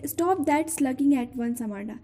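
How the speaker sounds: slow, drawn-out reading of a scolding; poem recitation. Acted. Teacher reciting the mother's scolding, slow recitation. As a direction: read each scolding line slowly to the class.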